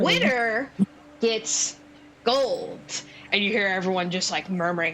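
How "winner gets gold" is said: gnome showman announcing a prize; lightly projected gnome announcer; booming gnome. Acted. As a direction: announce it to the crowd as a gnome host. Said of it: "bizarrely booming voice".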